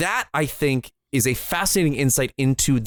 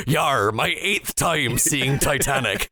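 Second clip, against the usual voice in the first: put-on slow old pirate growl; salty sea captain; slower than usual. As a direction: play a crusty old sea dog. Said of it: "an old salty sea captain be like".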